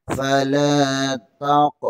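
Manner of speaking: फला ताक़ recited slowly with a thin ta; correct thin ta. Shown as a demonstration. Teacher recites फला ताक़ correctly for students, slowly. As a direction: stretch फला ताक़ slowly and keep the ta light. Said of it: "इसे पुर नहीं पढ़ना".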